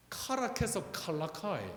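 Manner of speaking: Busan dialect, phrase set out for listeners. Shown as a demonstration. Preacher repeats the puzzle phrase, in Busan dialect. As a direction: say it in Gyeongsang dialect intonation. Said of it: "이게 부산 사투리입니다".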